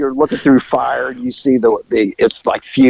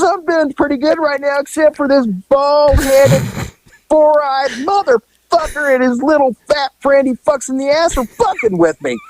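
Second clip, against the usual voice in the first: retold reply; 11 semitones higher than usual. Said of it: "She goes".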